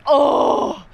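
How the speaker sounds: high, loud incredulous hoots; shocked bystander shouting over a brutal burn; stunned onlooker. Acted. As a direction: gasp at how harsh that rejection was, bro. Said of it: "And it's like".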